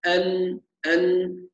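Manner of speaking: "أن" held on a clean n, no vowel after; still nun. Shown as a demonstration. Teacher drills the ending, أن with a still nun. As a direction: end "أن" with tongue up and lips open. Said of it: "لابد من فتح الفم".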